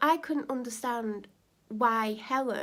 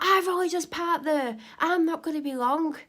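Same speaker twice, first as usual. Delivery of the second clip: loud, higher, indignant yell; mock angry shout; 6 semitones higher, 5 dB louder than usual. Neighbour yelling she only just parked. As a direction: yell it back at her indignantly. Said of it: "She's like, screaming".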